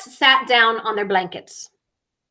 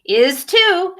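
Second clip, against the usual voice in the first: a higher, firm "is too"; insisting; 7 semitones higher, 4 dB louder than usual. Acted. Ziggy arguing about the monster, insisting. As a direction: insist on it stubbornly. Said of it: "insisted Ziggy".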